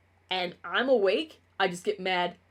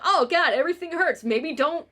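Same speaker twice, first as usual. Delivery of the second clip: higher and louder, hammed-up suffering groan; mock whiny inner voice; 7 semitones higher, 5 dB louder than usual. Quoting her inner voice after too much coffee, mock suffering. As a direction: play your own complaining body. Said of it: "It's like".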